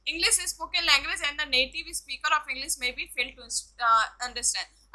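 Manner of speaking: slow English phrase. Shown as a demonstration. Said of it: "lecturing in English".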